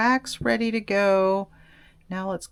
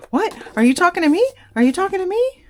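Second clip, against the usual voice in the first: corgi voice; 10 semitones higher, 6 dB louder, much faster than usual. Pretend. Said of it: "she's like".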